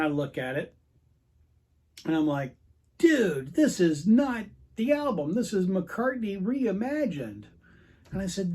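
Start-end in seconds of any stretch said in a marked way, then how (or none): 3.0-7.4 raised, emphatic objection; retold exasperated protest; indignant protest. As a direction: push back in disbelief, higher and louder. Retold protest at the record store.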